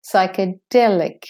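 "Psychedelic" as sy-kuh-DEL-ik; de-stressed first E. Shown as a demonstration. Teacher modelling for learners, "Psychedelic" with schwa first E. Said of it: "first E is de-stressed".

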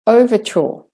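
"overture" without r, ending in "chaw"; British-Australian. Shown as a demonstration. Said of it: "same thing".

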